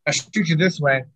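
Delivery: audio cutting in and out; broken-up call audio, dropouts; corrupted glitchy audio. Real, not acted. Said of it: "Your audio is cutting out a little bit".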